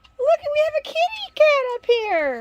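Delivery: high, loud excited squeal.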